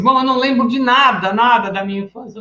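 a hint of a forgetful client insisting; client who remembers nothing. Therapist voices a viewer who remembers nothing, lightly puzzled. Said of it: "falando assim".

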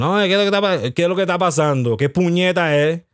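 mock confrontation in Spanish; switching into Spanish. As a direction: break into indignant-sounding Spanish questions. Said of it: "we was gonna speak Spanish".

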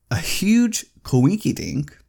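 slow playful whispered aside. Real, not acted. Vlogger sharing a fun coincidence, slow playful whisper. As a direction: lean in and whisper it like a secret.

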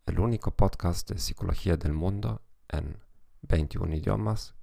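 Spanish with a German accent; German-accented Spanish, careful and measured. Real, not acted. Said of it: "con acento alemán".

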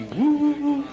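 giddy woo sliding way up; tipsy woo-woo, laughing; drunk wife. Retold or imitated. Stoned wife giggling woo at the club, rising high.

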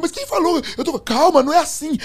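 high, agitated denial; high-pitched rattled reply; retold flustered protest. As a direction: imitate a friend protesting in confusion. Retold argument, friend protesting.

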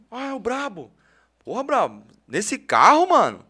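imitating boys shouting from the street; teasing kids. Boys see the host in his old car, mock calling out. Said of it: "Aí os moleque passou".

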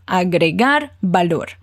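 Agregar valor said slowly and carefully for repeating; slow model phrase. Shown as a demonstration. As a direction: spell it out slowly for the student. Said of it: "Treina aqui comigo". (professora falando devagar para o aluno repetir)

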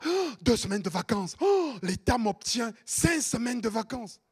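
hammed-up gasping delight over holidays; mock excitement. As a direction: gasp "oh" and gush in mockery. Mimics someone delighted over holidays.

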